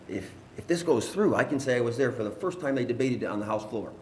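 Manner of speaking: retold excitement, voice jumping up at the start; excited son. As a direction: relay a son's thrilled news, pitch lifted. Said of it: "he was all excited".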